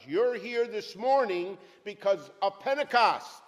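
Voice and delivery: loud, fervent declaration; rising with real excitement; excited. Real, not acted. Preacher getting carried away about Pentecost, excited. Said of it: "I'm getting too excited".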